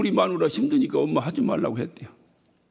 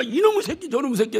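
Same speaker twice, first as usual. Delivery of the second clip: retold cursing; 7 semitones higher than usual. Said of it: "그러니까 내가".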